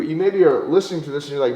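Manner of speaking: ordinary delivery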